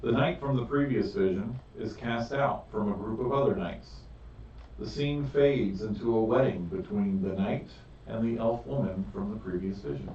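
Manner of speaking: slow, measured narration with drawn-out key words; game master's scene setting. Acted. Game master describing the chamber and visions to players, scene-setting narration. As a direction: set the scene deliberately, phrase by phrase.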